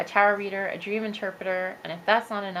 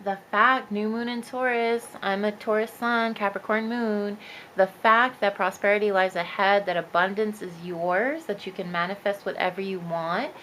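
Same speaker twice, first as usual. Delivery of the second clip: sing-song voice. Real, not acted. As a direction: let the reading sway in a sing-song. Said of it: "I'm doing the sing-song voice".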